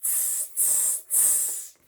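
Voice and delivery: soft voiceless tss, tss, tss like chattering monkeys; monkey tsking. Acted. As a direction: hiss it back like cheeky monkeys. Monkeys mock the peddler back.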